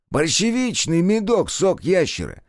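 man in hat. A narrator's reading. Hatted man explains, pitched up.

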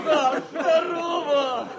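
high, slowed, beaming hello; warm happy greeting. Acted. Officer greets his front friend with high joyful warmth. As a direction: greet him with open delight.

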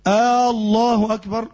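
الله أكبر with the opening hamza stretched long and slow; الله أكبر with a wrongly lengthened first vowel; drawn-out hamza, wrong. Shown as a demonstration. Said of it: "أو يمد إيه الهمزة".

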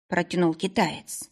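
ordinary delivery

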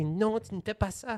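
worked-up coach in broken French, high-pitched; Mark Crawford. Retold or imitated. Imitating a coach scolding in the locker room, agitated. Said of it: "qui est tout énervé".

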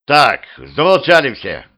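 high, loud order; commanding shout. A narrator's reading. Petrovich to arguing cellmates, loud commanding shout. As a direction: call for silence forcefully. Petrovich silences everyone in cell.

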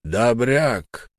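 lightly voiced husky bass of a tall lad; a rough young man calling over the gate. A narrator's reading. Lad at the gate hailing Ralph, rough bass. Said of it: "послышался хриплый бас".

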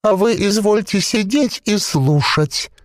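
a possessed corpse bubbling out its words; gurgling voice. A narrator's reading. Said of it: "бульканье маслянистого варева".

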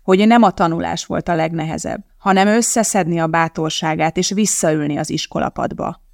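plain reading voice

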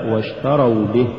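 full واشتروا, then a separate به; separate words. Shown as a demonstration. Teacher repeats the correct form, واشتروا apart from به. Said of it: "الصواب".

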